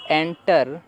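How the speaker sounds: एंटर stretched very slowly; drawn-out model word. Shown as a demonstration. Teacher stretching the word for students. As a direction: let एंटर linger slowly. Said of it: "तो वैसे यहाँ पर भी है".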